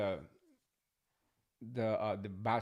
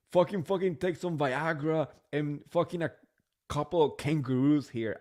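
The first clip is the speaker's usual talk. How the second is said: bad British accent; 4 semitones higher, 5 dB louder than usual. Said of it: "I can't do a British accent".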